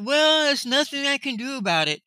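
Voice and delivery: high-pitched imitation of a supervisor; mock helpless excuse. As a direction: mimic a shrugging refusal, pitched high. Mimicking the supervisor's refusal.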